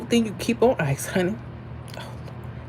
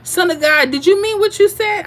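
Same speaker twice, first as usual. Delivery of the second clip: incredulous; 10 semitones higher, 4 dB louder than usual. Real, not acted. Confronting a viewer.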